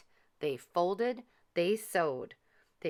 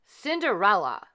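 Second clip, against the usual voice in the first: louder call; 3 semitones higher, 7 dB louder than usual. A narrator's reading. Third call fading.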